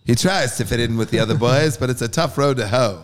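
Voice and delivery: put-on mid-Atlantic accent, brisk; quick mock mid-Atlantic patter. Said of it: "that's my mid-Atlantic accent".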